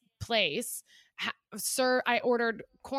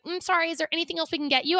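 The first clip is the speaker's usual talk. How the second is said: quick, higher customer-service voice; mimicked apologetic manager; 6 semitones higher, 3 dB louder, faster than usual. Diner mimicking the manager who came over, apologetic. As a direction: imitate a manager offering a token apology.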